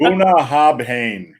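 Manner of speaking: Bunnahabhain spelled out slowly, syllable by syllable; careful pronunciation. Shown as a demonstration. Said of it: "a word that I don't wanna pronounce".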